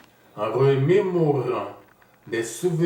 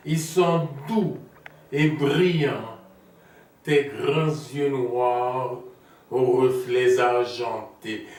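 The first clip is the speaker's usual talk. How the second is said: lightly declaimed love poem; poetic recitation; 3 semitones higher than usual. Acted. Lover praising Maniki's beauty under the moon, poetic recitation. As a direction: recite it in measured phrases, pausing between images.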